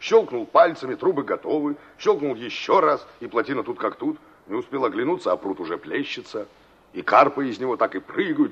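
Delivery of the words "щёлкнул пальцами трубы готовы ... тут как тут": mocking. Насмешливо высмеивает её мечты.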